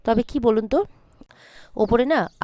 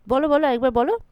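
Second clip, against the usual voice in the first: mother-in-law yelling at Sona, a mild mock yell; angry yell; 5 semitones higher than usual. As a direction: throw the dare back at her, raised. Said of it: "চিৎকার করে ওঠে, ভয়ঙ্কর চিৎকার".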